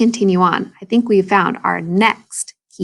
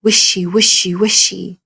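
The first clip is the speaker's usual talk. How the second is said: snake in grass sound. Shown as a demonstration. Teacher showing how Snake moves in grass, swishing. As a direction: let "wishy" glide like a snake in grass. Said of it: "the sound that Snake makes".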